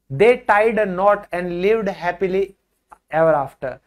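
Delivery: very slow fairytale ending; drawn-out, storytelling; slow storybook line. Acted. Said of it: "reciting a phrase slowly".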